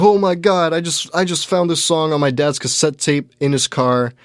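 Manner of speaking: imitating a thrilled teen who found a treasure; excited kid. TikTok kid showing off his dad's cassette, excited and high.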